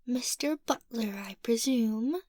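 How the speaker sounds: a light mock of Lydia's formal butler greeting; imitating Lydia. Girl teasing the butler, lightly imitating Lydia. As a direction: borrow Lydia's stiff, proper manner. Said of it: "Did I sound like her?".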